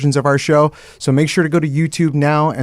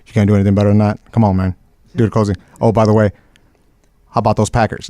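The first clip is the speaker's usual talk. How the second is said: Southern twang; 4 semitones lower than usual. Retold or imitated. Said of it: "this Southern twang where he's like".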